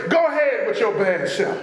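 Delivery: encouraging and full of praise. Retold or imitated. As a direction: praise with a proud swagger. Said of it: "an offer of encouragement and praise".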